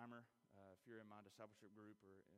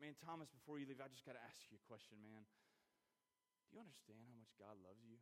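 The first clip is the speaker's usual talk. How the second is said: tender question. Retold or imitated. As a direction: ask gently, leaning in to the man. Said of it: "And I'm like".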